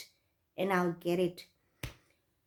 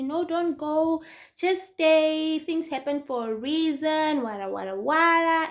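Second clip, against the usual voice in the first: high, mildly mocking plea; retold motherly persuasion trailing into blah-blah; imitated pleading mother; 6 semitones higher than usual. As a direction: coax someone to stay, half in parody. Mother pleading, mocked by speaker.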